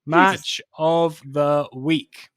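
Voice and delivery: announcer call. Shown as a demonstration.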